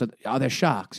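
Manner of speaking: imitated Boston cousin, dropped R in "sharks"; thick Boston accent. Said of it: "he's got a real thick Boston accent".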